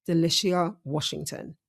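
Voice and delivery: talking through braces; words slurred by braces. Real, not acted. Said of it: "it's really hard to talk with braces".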